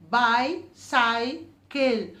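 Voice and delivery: very slow, chin dropping on each beat; syllable by syllable. Shown as a demonstration. Teacher guiding the chin activity, slowly. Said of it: "how many times your chin is going down".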